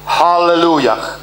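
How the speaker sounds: slow, drawn-out Hallelujah; proclaimed Hallelujah. Shown as a demonstration. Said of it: "I kiedy mówisz hallelujah".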